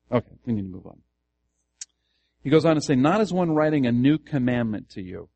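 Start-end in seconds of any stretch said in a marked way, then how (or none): 3.0-5.3 loud reading stressing "Not" and "new"; emphatic reading. Shown as a demonstration. Pastor quotes scripture to the class to show its emphasis, emphatic. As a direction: lean hard on "Not" and "new". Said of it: "Where's the emphasis in that statement?".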